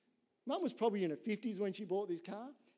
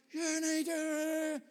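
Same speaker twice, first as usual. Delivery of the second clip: mum cut off; 8 semitones higher, much slower than usual. Retold or imitated. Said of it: "she's like".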